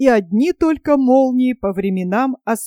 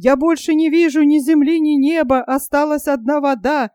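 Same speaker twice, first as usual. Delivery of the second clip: fast, higher wailing; panicked lament; 3 semitones higher, faster than usual. Acted. Panurge, seeing only water, longs for Paris. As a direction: rush the words in despair.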